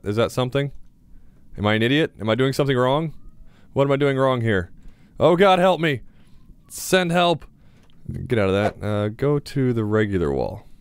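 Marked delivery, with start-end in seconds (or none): 5.2-7.4 high, exasperated plea for rescue; hammed-up helpless wail; mock despair. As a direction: cry for help in play panic. Mock despair at game menu.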